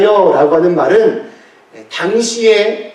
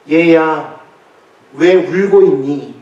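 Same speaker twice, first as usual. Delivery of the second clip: tender call; 2 semitones lower, slower than usual. Acted. Voicing the Lord comforting a child.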